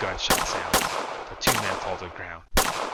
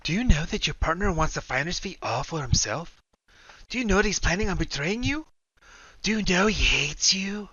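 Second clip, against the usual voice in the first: higher, cutting taunts; taunting scream; 9 semitones higher, 4 dB louder than usual. A narrator's reading. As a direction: sow doubt, voice raised. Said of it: "hears the woman scream".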